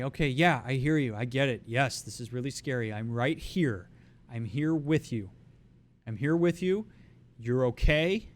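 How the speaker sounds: steady, reassuring voice for a panicking friend; calm them, you're right beside them. Shown as a demonstration. Coach showing how to talk to someone panicking, reassuring. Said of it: "you might touch them and say".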